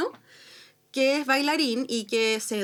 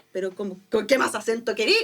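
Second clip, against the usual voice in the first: put-on Chilean accent; 3 semitones lower than usual. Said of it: "Y yo así".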